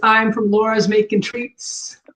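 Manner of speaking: ordinary talk, nothing marked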